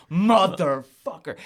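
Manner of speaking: imitating an enraged dad, loud and drawn out; dad's furious curse. Dad learning of the bleach, mock fury. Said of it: "I've never seen nobody do this".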